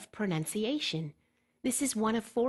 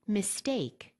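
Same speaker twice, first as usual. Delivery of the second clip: "mistake" said slowly with the stress on the second syllable, mis-TAKE; word stress demo. Shown as a demonstration. Teacher shows IELTS learners the right stress, in a slow and deliberate voice. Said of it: "For instance".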